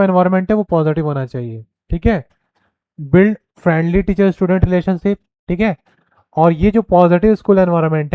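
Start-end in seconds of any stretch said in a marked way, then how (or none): 3.0-5.2 very slow, each word spaced out; dictating a point; slow dictation. Shown as a demonstration. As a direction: read it slowly so students can write. Reading slide point aloud.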